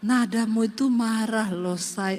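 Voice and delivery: low, soft Solo husband; husband's low reply. Retold or imitated. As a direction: gently point out her tone. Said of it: "husband's reply in story". (suami menegur dengan suara rendah dan pelan)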